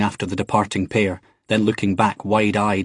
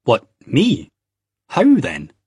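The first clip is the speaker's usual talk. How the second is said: louder, higher indignant protest; demanding; 5 semitones higher, 5 dB louder, slower than usual. A narrator's reading. Jamie shocked at being taken for a Jew, louder. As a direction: fire back louder in disbelief. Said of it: "he demanded".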